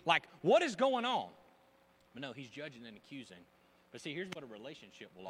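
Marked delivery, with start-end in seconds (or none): 0.1-1.3 slow, high, indignant whine; huffy Pharisee. Retold or imitated. Pharisee fuming that his party is ruined, slow and whiny. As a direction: play the offended host, drawn out. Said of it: "He's probably just like".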